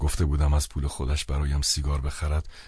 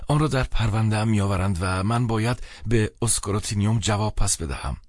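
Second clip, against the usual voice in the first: higher, pleading explanation from the friend; lightly voiced anxious friend; 6 semitones higher than usual. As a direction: gently plead to be understood.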